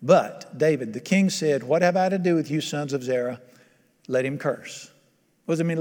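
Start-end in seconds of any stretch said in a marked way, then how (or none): 1.6-4.9 lower, restrained reply, softening at the end; voice of sanity. Acted. King restraining his men from revenge, calm and restrained. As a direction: calmly hold the men back. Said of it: "listen to the voice of sanity".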